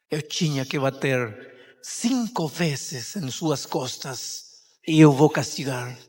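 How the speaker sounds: a quiet, resolute mother; firm mother. Acted. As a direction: deny him calmly but firmly. Mother refuses son's plea.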